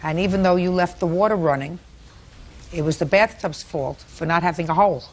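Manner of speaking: dry mocking sarcasm; sarcastic scolding tv judge. Real, not acted. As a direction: ridicule the excuse drily. Judge ridicules bathtub excuse.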